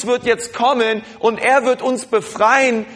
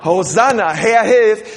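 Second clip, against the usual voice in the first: leading the call; 4 dB louder than usual. Shown as a demonstration. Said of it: "Sagt mal alle".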